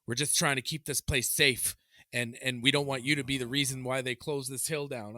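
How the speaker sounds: imitating a lady's loud telling-off; mock stern reprimand; retold scolding. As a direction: lecture him like an officious staffer. Retold lady scolding him.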